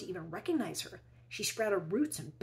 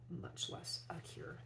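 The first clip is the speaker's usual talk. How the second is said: whisper; 10 dB quieter, slower than usual. A narrator's reading. Narrator's wry aside about experts.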